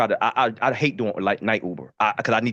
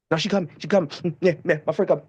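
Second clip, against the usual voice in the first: lightly voiced jittery passenger, a bit higher; crackhead passenger; 3 semitones higher, faster than usual. Passenger stalling her waiting Uber driver, lightly imitated crackhead voice. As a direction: imitate a fidgety rider putting the driver off. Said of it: "she the fucking crackhead".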